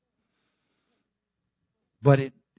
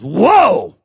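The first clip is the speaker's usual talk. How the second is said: surprised whoa; 5 semitones higher, 11 dB louder than usual. Retold or imitated. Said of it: "He goes".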